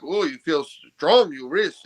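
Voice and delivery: lightly imitated Polish accent, drawn out. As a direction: quote him in a slow mock Polish accent. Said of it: "I like your Polish accent".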